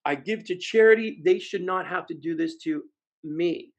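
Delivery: mock the buyer justifying himself; self-righteous buyer. Salespeople excuse their own buying habits, self-righteous.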